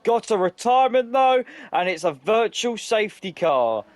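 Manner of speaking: urgent breaking-news call; excited. Real, not acted. Sudden retirement announced.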